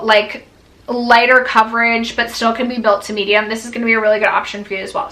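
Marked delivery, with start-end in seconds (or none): 3.5-5.1 rushed and out of breath; racing, short of breath. Real, not acted. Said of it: "whew, I am out of breath".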